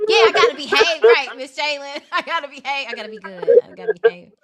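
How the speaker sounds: high, loud sweet customer service voice; work voice. Real, not acted. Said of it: "That's why my voice is like".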